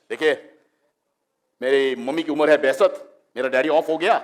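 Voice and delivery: imitating an irritated cricketer's reply; measured Hindi answer, building to an outburst; Kapil Dev. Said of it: "he would get angry".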